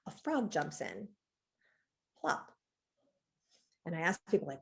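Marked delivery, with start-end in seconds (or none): 0.1-2.5 reciting a koan. Shown as a demonstration. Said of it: "And it said".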